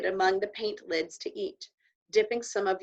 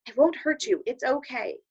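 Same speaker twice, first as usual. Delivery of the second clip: soothing; 3 semitones higher, 5 dB louder, slower than usual. Acted. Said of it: "saying like the cowboy himself".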